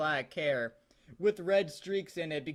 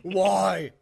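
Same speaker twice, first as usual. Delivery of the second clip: exclaiming; 7 dB louder than usual. Acted. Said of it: "I exclaimed".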